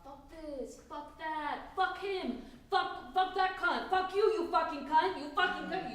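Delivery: mounting mock tirade of swearing; talking the talk. Friend acting out talk on the tram, swearing tirade. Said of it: "I've seen someone talking the talk".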